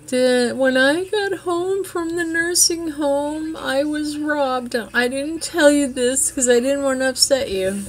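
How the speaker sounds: imitating mom. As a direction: play his mother breaking bad news, high and drawn out. Son voicing his mother on phone.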